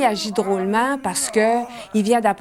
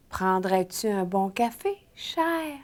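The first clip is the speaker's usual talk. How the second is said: affectionate repeat; 6 dB quieter, slower than usual. Shown as a demonstration. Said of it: "Tout le monde ensemble, on répète".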